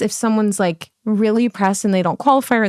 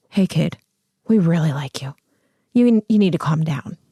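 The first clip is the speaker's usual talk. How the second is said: low, dropped, private, confidential tone; 5 semitones lower than usual. Retelling being pulled aside after a callback: imitating Casey Nicholaw, hushed aside. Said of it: "pulled me to the corner of the room and was like".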